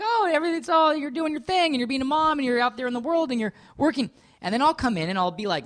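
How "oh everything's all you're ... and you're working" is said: carefree wife. Retold or imitated. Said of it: "you'll be moving along like".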